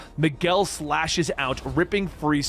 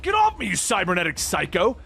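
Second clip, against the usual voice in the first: shouting; 4 semitones higher than usual. Acted. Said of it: "he shouts".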